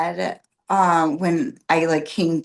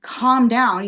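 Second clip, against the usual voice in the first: louder, higher exasperated scolding; scolding husband; 4 semitones higher, 4 dB louder than usual. Retold or imitated. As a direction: tell him off, exasperated. Scolding husband after he ate.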